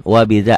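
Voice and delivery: "bidza" with th-like dz; between soft and hard. Shown as a demonstration. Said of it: "antara rapuh dan keras".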